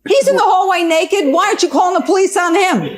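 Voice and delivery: high, indignant disbelief; incredulous outburst. Real, not acted. Judge challenging Ron over the naked man, incredulous. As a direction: fire the question out high, appalled.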